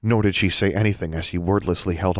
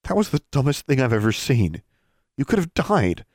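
higher voice, scolding; scolding boy; 7 semitones higher than usual. Acted. Brian scolds Alexandra in a higher voice. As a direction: tell her off for being reckless.

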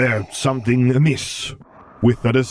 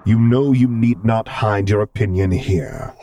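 slow, louder formal chiding; gentle chiding; 3 semitones higher, 6 dB louder than usual. A narrator's reading. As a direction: chide the child, taking your time. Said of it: "he chided".

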